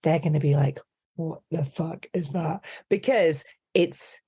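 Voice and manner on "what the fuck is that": put-on slow, baffled Scottish accent; Scottish viewers. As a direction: imitate an incredulous Scottish viewer. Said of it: "especially the Scottish people".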